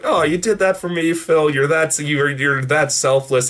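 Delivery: lightly acted grateful coo; touched admiration. Retold touched thanks to Phil.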